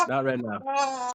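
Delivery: high, very slow, stretched-out words; drawn-out refusal. Real, not acted. Co-host repeating that they get no titles, drawn-out and high. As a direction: drag it out high for emphasis.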